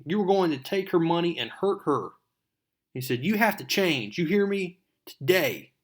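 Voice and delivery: high, loud scolding of the crooks; angry scolding. Retold or imitated. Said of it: "he's like".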